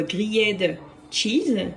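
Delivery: "grilled cheese" slowly, in a heavy French accent; drawn-out French-accented "gri-yed tcheese". Shown as a demonstration. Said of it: "en accent français, ça dit plutôt".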